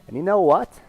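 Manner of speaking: high, swooping celebrity impression of a father; impersonated dad urging his son on, pitch leaping; Christopher Walken. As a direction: tell a fable in halting, lilting bursts. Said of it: "he's talking to his son. He's like".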